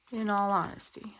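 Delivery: a quiet whispered afterthought; whispered aside. Real, not acted. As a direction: whisper it under your breath. Aside after a counting total.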